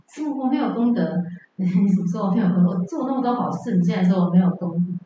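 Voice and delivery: mock indignant emperor, rushed protest; a touch of mock outrage from an offended emperor; angry emperor. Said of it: "这皇上就很生气".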